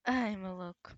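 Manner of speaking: breathy whisper to the pet. Real, not acted. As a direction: whisper fondly to the dog. Whispering at the dog.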